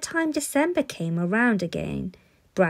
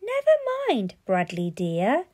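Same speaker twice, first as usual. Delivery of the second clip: high, anxious coaxing of a spoiled son; lightly voiced fretful parent; soothing parents; 5 semitones higher than usual. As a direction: parents rushing to calm him. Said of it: "cried Mister and Missus Bartleby".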